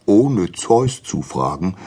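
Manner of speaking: slowing, mildly shocked question; a touch of alarm, drawn out; understated fishy dismay; startled fish. Acted. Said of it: "sagte der Fisch erschrocken".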